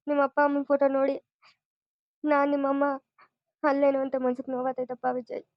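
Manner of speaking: hurt mother close to tears; tearful. Acted. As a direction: pour out the hurt, crying a little. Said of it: "ಯಾಕಮ್ಮ ಹಿಂಗ್ ಅಳ್ತಾ ಇದ್ದೀರಾ?".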